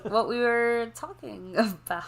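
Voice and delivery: whispered through a laugh, slow; giggly whisper. Real, not acted. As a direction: breathe it out laughing. Forgetting topic, giggling.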